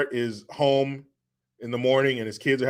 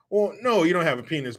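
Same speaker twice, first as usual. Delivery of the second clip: dad; 5 semitones higher than usual. Retold or imitated. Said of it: "he looks at her and goes".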